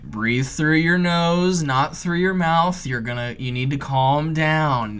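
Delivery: slow, soothing breathing instructions; coaxing him to breathe slowly; coaching calm. Retold or imitated. Boss coaching scared friend down the ladder, slow and soothing. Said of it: "Chris is like".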